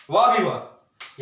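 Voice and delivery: slow, drawn-out mock praise; sarcastic wow. Teacher mocking students' wrong proof, slow sarcastic praise. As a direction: applaud the mistake with heavy sarcasm. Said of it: "sarcastic praise of mistake".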